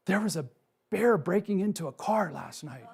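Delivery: mildly excited, voice lifted; excited retelling. Retold or imitated. Hiker breaking news of a bear on the trail, mock excited. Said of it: "so excited. And he says".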